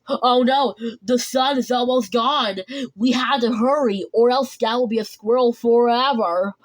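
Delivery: acted urgent worry; a touch of storybook panic; mild alarm. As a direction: sound the alarm as time runs out. Story character alarmed as sun sets.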